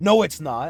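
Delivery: loud, put-on upset protesting voice. Retelling a dad's denial at the end of a meal: imitating an upset dad. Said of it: "He gets very upset about it".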